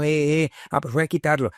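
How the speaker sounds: imitating her own fillers. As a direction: play back her own stumbling eh, eh. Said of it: "siempre digo". (imitando sus propias muletillas)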